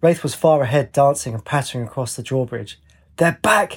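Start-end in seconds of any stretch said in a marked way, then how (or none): 3.2-3.7 much higher joyful shout; shouted in delight. A narrator's reading. Wraith on the drawbridge shouting in delight. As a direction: call it out in sheer delight from afar. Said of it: "he shouted in delight".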